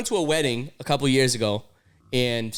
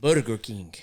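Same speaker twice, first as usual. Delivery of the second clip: "Burger King" with tapped Spanish R, lower; Spanish accent; 5 semitones lower than usual. Shown as a demonstration. Co-host demonstrating the brand name, low Spanish accent. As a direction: put a thick Spanish accent on it. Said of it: "they should say Burger King in the accent".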